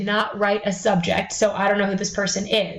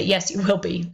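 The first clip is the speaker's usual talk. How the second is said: sarcastic reply; 3 semitones lower than usual. Retold or imitated. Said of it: "respond with a sarcastic comment".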